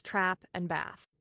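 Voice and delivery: "trap and bath" with the same short "a" as in cat; General American vowels. Shown as a demonstration. Teacher showing her own accent, "trap and bath" with matching flat-A vowels. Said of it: "General American accents like mine use the trap vowel".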